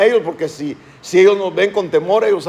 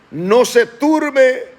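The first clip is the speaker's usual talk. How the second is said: slow solemn reading; 5 semitones higher, much slower than usual. Acted. Pastor reads verse slowly.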